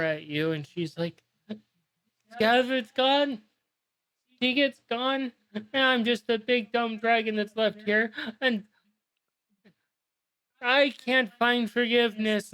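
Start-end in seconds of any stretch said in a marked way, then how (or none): 2.3-12.5 wailing dragon. Acted. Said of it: "she just starts wailing".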